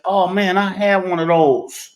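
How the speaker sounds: excited recognition. Retold or imitated. Excited recognition in antique store.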